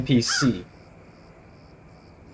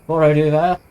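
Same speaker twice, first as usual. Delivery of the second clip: lightly voiced Western sheriff, louder; sheriff character voice; 5 dB louder than usual. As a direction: put on a hint of a sheriff's voice. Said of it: "I should be doing a voice for him".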